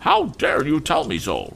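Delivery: very high, indignant lady's retort; haughty retort. A narrator's reading. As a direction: snap back at the child from on high. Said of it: "retorted Missus Pocket".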